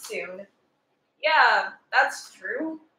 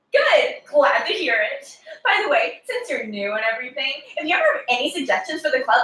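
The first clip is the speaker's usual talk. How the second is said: cheery, forward class president voice; bubbly overeager schoolgirl; preppy girl. Acted. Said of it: "Preppy Girl on cocaine".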